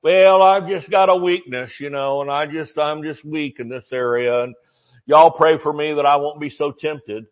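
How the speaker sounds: droning mock confession of weakness; woe-is-me monotone, put on; mock self-pity. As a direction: imitate someone feebly making excuses. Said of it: "never confess things like".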